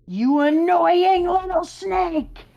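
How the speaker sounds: high, loud, drawn-out snarl; angry taunt. Acted. God of the sky mocking the snake, loud and slow.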